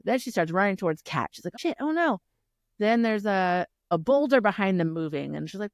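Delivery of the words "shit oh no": retold alarm. Retells character's alarm.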